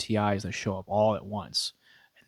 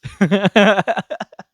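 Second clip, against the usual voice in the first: short high laugh at own bad luck; burst of laughter; 8 semitones higher, 8 dB louder than usual. Real, not acted.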